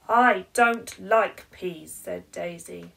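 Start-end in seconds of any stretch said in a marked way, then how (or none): 0.1-1.9 slow, loud flat refusal; stubborn child. Acted. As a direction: dig your heels in like a stubborn little girl.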